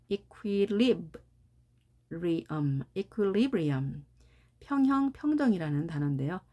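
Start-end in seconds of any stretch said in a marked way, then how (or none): 0.1-4.0 slow equilibrium, broken after LIB, then whole; stress on LIB. Shown as a demonstration. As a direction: draw out equilibrium, leaning on LIB. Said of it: "이렇게 발음이 되겠습니다".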